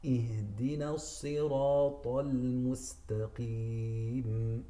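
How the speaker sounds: "الصراط" with a heavy sad; correct recitation. Shown as a demonstration. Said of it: "So here we have".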